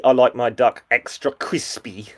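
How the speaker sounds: slow mock East Asian accent; lightly put-on East Asian accent, drawn out. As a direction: imitate a sitcom character's crude East Asian accent. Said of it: "maybe Asian accent".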